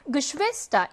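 Geschwister with SCHWIS stressed; light Ge, then hit schwis in Geschwister; Geschwister, accent on the second syllable schwis. Shown as a demonstration. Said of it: "이 음절 강세어입니다".

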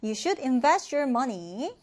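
very slow, clear read for learners; slow model sentence. Shown as a demonstration. Teacher reading the example sentence slowly for students. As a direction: spell out each word slowly. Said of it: "너는 너의 돈을 현명하게 투자해야 된다".

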